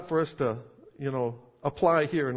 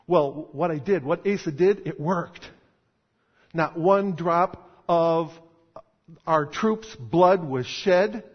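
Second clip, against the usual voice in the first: voicing Asa; 4 dB louder than usual. Preacher voicing Asa's defence.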